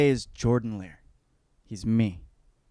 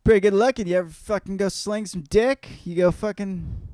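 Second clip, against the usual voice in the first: higher and louder egging-on; lightly voiced hard-partying Henry; rowdy party dude; 8 semitones higher, 4 dB louder than usual. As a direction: push him like a frat bro. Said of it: "Henry Wotton starts being like".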